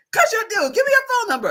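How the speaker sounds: high, laughing retold plea; imitating the ex. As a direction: coax for the number. Ex insisting.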